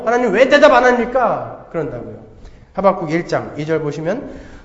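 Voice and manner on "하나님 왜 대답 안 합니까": 아각거리는 하박국. Retold or imitated. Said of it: "하박국이 아각거리면서".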